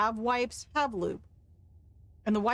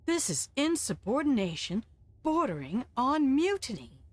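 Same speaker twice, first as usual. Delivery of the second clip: yell in a whisper; 5 semitones higher than usual. Acted. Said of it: "making him yell in a whisper".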